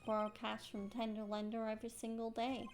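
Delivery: put-on tough-guy Brooklyn accent; Furio Tigre. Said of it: "Tigre's dialect".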